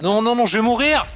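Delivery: high, loud panic; panicked cry. Real, not acted. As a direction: cry out about to die. Starving in game. (panique aiguë)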